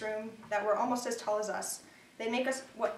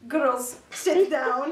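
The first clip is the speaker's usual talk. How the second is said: put-on loud, raised Russian-accented coach call; heavy Russian accent; 4 semitones higher, 9 dB louder, much slower than usual. Beer-bellied coach addressing his young gymnasts, heavy Russian accent. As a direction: order the team about in a thick Russian accent. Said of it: "With his heavy Russian accent".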